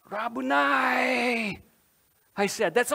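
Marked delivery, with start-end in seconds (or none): 0.1-1.6 slow, stunned and breathless; breathless recognition. Acted. Mary suddenly recognizes Jesus, slow and breathless. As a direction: breathe the name out in awe. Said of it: "I lost my breath".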